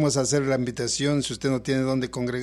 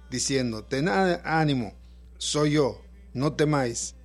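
scripture reading. Acted. Pastor reads Mateo 14 aloud.

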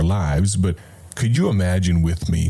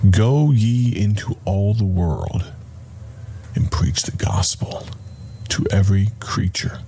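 compassionate. Shown as a demonstration. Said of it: "but also compassionate".

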